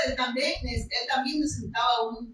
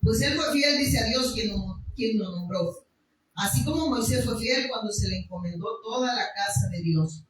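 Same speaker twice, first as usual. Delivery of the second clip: slow, careful reading of the verse; read slowly. Shown as a demonstration. Pastor rereads verse slowly for congregation. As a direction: take each word slowly so they catch it. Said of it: "lo voy a leer despacio".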